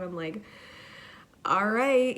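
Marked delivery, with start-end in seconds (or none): 1.4-2.2 loud, high pump-up; rally yourself out loud; psyched up. Retold or imitated. Stoned worker pumping herself up for the shift, loud and high.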